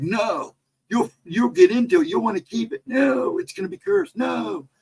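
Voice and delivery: high-pitched retold panic; imitated freak-out. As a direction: mimic a friend refusing in alarm. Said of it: "'cause he freaked".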